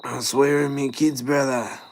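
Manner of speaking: high, pleading eshay voice; Ashay accent. Pretend. Eshay denying he took a wallet, high mock eshay accent. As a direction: protest innocence in a high Aussie eshay accent. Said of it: "speak in a bit of an Ashay accent".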